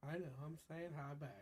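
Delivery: sick, husky voice; rough voice from a cold; hoarse voice. Real, not acted. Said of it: "Your voice is fucked too".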